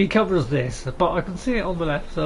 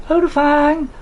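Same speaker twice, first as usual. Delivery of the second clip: shout; 5 semitones higher, 4 dB louder, slower than usual. Acted. Shouting a dragon's name in game.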